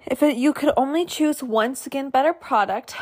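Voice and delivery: normal talking voice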